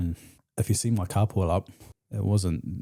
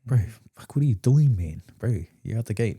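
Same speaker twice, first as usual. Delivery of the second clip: louder, higher mock outburst; acted exasperated challenge; 3 semitones higher, 6 dB louder than usual. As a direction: call him out in disbelief, voice jumping up. Acts out friend calling out his behaviour.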